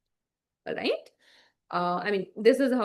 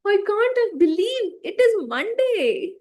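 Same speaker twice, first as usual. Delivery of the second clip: much higher, slow, furious outburst; angry; 11 semitones higher, 4 dB louder, slower than usual. Shown as a demonstration. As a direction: rage at the word Monday. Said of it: "in an angry, angry way".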